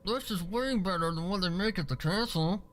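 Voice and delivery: lightly voiced remark after a bite; light Twilight voice. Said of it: "she remarked".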